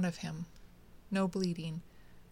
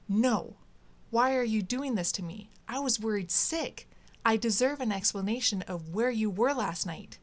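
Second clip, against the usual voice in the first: angry outburst; 3 semitones higher than usual. Acted. Slams table, demands explanation.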